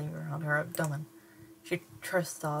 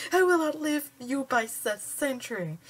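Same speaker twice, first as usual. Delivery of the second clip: defiant boast; 9 semitones higher, 6 dB louder than usual. Acted.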